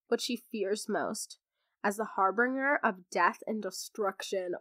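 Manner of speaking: dramatic blurb reading. Acted. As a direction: read it like a movie trailer. Reads the book blurb aloud.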